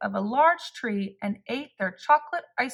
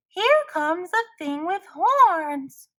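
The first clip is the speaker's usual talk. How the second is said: higher, louder and slow, frightened; shouted; 8 semitones higher, 4 dB louder, slower than usual. A narrator's reading. Rabbit warning the animals of the horned thing, frightened shout. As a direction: yell the warning. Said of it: "shouted a rabbit".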